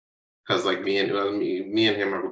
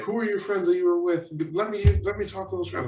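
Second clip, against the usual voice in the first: retold parental interrogation; screaming parent; 9 semitones higher, faster than usual. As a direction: imitate a parent demanding answers, voice pushed up. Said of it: "And they're screaming".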